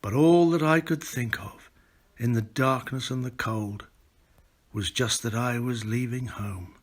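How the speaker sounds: measured, rolling recitation of a sea ballad; storyteller reciting a poem; poem reading. Acted. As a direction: read it like an old sailor's verse by the fire. Reads a poem aloud.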